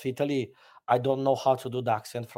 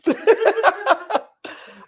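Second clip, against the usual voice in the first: loud high-pitched laughter; real high cackling laugh; 4 dB louder than usual. Real, not acted. Laughing between remarks.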